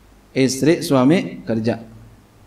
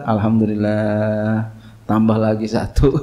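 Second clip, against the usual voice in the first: devil gloating; 5 semitones lower than usual. Retold or imitated. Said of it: "kata setan".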